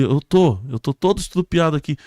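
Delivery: lightly acted echoing reply; victim answering. Crash victim answering the rescuer, lightly acted.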